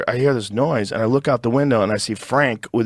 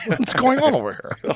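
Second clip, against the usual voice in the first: much higher goofy dog voice; voicing the dog; 13 semitones higher than usual. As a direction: play the nosy, friendly Labrador. Voicing the curious Labrador.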